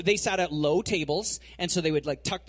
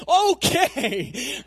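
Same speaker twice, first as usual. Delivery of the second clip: high rising eager okay; 8 semitones higher, 7 dB louder than usual. Retold or imitated. Peter suddenly agrees, high and rising. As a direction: Peter giving in at once, eagerly. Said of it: "complete turnaround".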